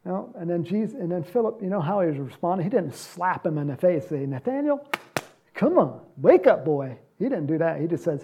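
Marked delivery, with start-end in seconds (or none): 4.3-7.0 mock harsh rebuke. Mock harsh rebuke not given.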